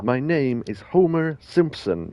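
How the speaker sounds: slow lightly voiced cartoon dad; Homer Simpson. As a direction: say it slowly like a dopey cartoon father.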